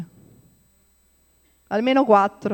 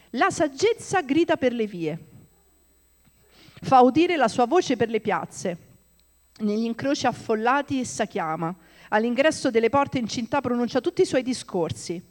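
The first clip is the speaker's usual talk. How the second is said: reads scripture in a declaiming voice; scripture reading. Acted. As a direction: proclaim the passage. Reads Proverbs aloud. (lettura biblica proclamata)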